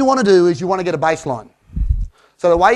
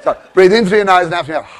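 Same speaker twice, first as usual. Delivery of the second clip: coaching call; 4 semitones higher, 7 dB louder than usual. Shown as a demonstration. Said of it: "coaching the breath".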